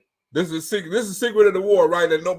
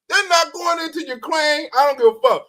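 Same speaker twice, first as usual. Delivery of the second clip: a much higher, loose parody of Trump's line; mock Trump; 8 semitones higher, 3 dB louder than usual. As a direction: toss it off like a carefree Trump. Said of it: "You hear the difference?".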